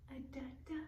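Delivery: whispered stammer on da; whispered sound. Shown as a demonstration. Teacher whispering the d sound for children. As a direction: breathe the da sounds out. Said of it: "modelling the duh sound".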